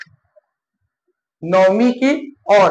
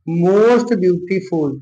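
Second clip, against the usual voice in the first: slow dictation; much slower than usual. Shown as a demonstration. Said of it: "क्या हो जाएगा".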